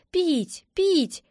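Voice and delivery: high, rising little squeak; squeaking gosling. A narrator's reading. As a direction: peep it like a newborn gosling. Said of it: "запищал он". (гусёнок тоненько пищит)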